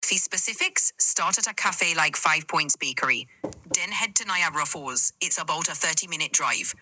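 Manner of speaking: steady Jamaican accent listing places; helpful Jamaican guide; Jamaican patois. Shown as a demonstration. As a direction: lay out the plan in a Jamaican accent. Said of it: "tell us in Jamaican, in patois".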